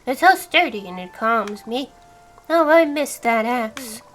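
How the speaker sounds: character read. Acted. Voicing woodcutter NPC.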